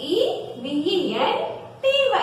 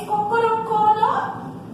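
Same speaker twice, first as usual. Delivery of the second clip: rooster crow; 4 semitones higher than usual. Retold or imitated. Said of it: "It says".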